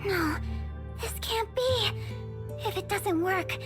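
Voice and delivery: distressed. Acted. Researcher fearing a lost funding request, distressed. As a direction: plead as the pitch climbs with dismay.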